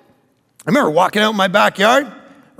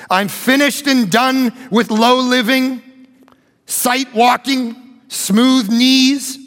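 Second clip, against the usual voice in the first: slow, weighty recitation of a vow; solemn reading; slower than usual. Acted. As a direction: read each line like a sacred pledge. Reads missionary's journal aloud.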